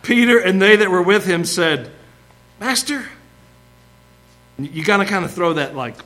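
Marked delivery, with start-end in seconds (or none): 2.6-3.0 high-pitched sarcastic address; sarcastic, accusatory. Acted. Disciple to Jesus after a silly question, sarcastic and accusatory. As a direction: throw it out with a mocking, questioning edge. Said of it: "sarcastic, accusatory tone to what Peter's saying".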